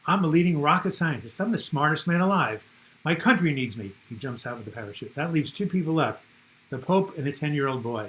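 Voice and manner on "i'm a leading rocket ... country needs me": a hint of a boastful rocket scientist, a bit louder; lightly voiced boastful scientist. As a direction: brag mildly like the smartest man alive. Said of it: "The second person says".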